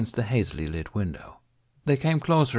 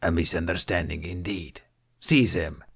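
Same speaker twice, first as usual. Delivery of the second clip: Hutt voice; 2 semitones lower than usual. Acted. Hutt orders guards.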